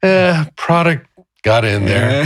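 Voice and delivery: slow, calmer version; the anger has melted away; gentle and slow, anger gone; softened. Retold or imitated. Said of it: "it started to soften".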